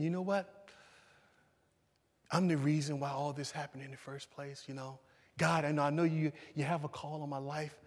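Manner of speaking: soft, subdued voice of David thinking alone; weary inner lament. Acted. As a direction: confide quietly in God, worn down. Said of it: "perhaps he was thinking".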